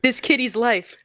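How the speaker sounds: a lightly voiced TV charity appeal. Mocking a charity donation appeal.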